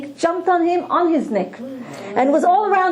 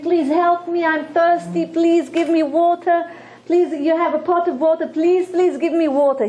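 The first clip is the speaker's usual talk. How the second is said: mildly raised, pleading retelling; lightly acted cry for help, pitched up a little; 3 semitones higher than usual. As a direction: imitate a thirsty snake begging, without really shouting. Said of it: "the snake was crying out. He was crying, shouting".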